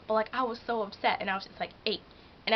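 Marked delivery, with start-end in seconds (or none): 1.9-2.0 "Eight." clipped short and blunt, a light mock snap; rude curt answer. Reenacting her answer to the manager, a mild mock snap. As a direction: bite off "Eight." like you're fed up. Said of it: "I didn't realize I sounded, like, rude".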